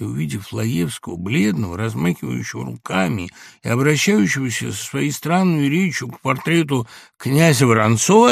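plain reading voice

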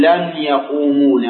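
يقومون said "yaquumuuna", ending in a short a; open final nun. Shown as a demonstration. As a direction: sound the last nun of يقومون as -na. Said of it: "وأجعل النون مفتوحة".

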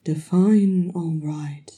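slow, husky, groggy reply; woozy. Acted. Thorin answers worried Farin, groggy and slow. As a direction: drag it out through a spinning head. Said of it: "his head aching and spinning".

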